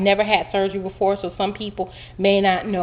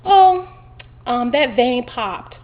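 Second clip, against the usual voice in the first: nurse voice; 4 semitones higher, 4 dB louder, much slower than usual. Retold or imitated. Nurse voiced, vein pops.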